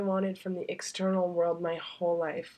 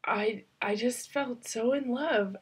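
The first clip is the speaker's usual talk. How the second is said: choked up; 4 semitones higher than usual. Real, not acted. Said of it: "I'm really choked up".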